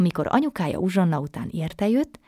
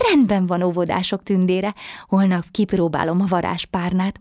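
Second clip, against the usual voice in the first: bright and louder with joy; a happy little girl agreeing; girl cheerfully promising the fairy, louder; 4 dB louder than usual. Acted. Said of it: "mondta vidáman a kicsi lány".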